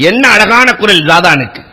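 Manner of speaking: a casual aside while walking by; offhand passing remark. Retold or imitated. Elder remarks casually while passing by, offhand. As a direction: toss "என்ன அழகான குரல்" off lightly in passing. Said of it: "போற போக்கிலே சொன்னார்கள்".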